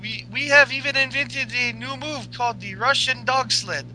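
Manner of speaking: hammed-up Russian woman cracking up; Russian accent Lana. Continues Lana impression.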